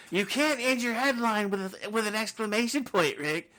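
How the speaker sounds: loud, high-pitched scolding imitation; exasperated telling-off, hammed up high and loud; mock yelling. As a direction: imitate someone yelling a reprimand. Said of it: "Phil yells at me about that".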